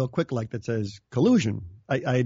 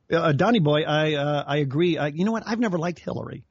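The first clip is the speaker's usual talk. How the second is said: bad Russian accent. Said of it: "come out a little bit like Sean Connery".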